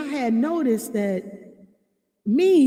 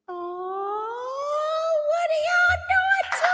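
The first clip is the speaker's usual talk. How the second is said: about to cry; 11 semitones higher, much slower than usual. Pretend. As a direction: squeak it out, overcome with gratitude. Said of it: "Don't make me cry".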